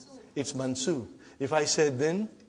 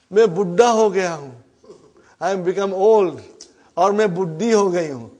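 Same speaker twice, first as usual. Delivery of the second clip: mock lament; 5 dB louder, much faster than usual. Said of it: "don't say to yourself".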